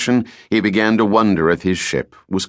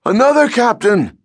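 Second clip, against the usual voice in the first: high, loud hail from aloft; second lookout shouting down to the captain; 4 dB louder than usual. Acted. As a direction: yell it down to the captain. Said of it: "shouted down from his perch".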